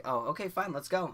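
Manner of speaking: lightly sarcastic "fine, let's go"; mock casual. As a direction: play it cool, brushing it off. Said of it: "And I'm like".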